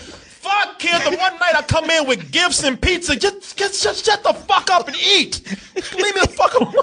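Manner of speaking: high, mock-exasperated rant at the kid; exasperated dad. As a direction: vent like a fed-up dad. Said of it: "it's like".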